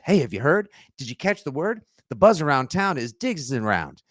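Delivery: lightly voiced 1940s newsreel crier; a hint of a street newsboy hawking gossip; playful nod to a 1940s film voice; old-timey newsy. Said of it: "in the voice of a Howard Hughes film from the nineteen forties".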